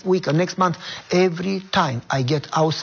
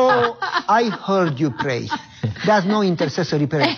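laughing tease; 3 semitones higher than usual. Retold or imitated. Wife teasing him.

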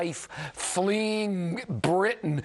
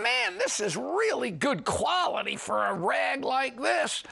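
retold impressed thought, pitched higher; mildly amazed, higher-pitched aside to oneself; pleasantly surprised; 5 semitones higher than usual. Host recalls reading an excellent magazine article, retold surprise.

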